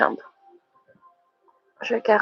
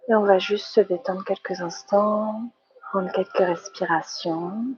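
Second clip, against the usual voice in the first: guided relaxation. Real, not acted. Teacher settling the yoga class into relaxation, calm guided meditation. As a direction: ease them gently into relaxing.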